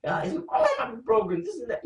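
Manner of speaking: high mock fretting voice; hammed-up anxious wife; panicking woman. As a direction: squeal it like a worried wife. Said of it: "a woman would be like".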